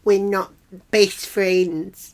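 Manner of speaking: imitated tearful pleading, slow and drawn out; a touch of put-on weepiness; mock teary. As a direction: plead as if the waterworks are starting. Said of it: "She starts getting all teary".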